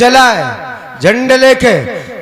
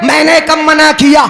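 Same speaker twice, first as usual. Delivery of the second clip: fiery preaching; 3 semitones higher than usual. Acted. Preacher rousing congregation about the flag, fiery chant. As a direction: preach it out to the crowd, drawing each phrase. Preacher builds to full force.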